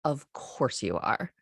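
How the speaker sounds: calm, slow, matter-of-fact. Retold or imitated. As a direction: say it flatly, as obvious. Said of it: "so matter of fact about it".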